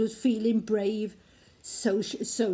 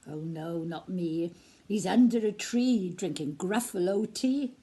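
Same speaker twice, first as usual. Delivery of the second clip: creature's reply; 3 semitones lower than usual. Acted. Owl/creature answers.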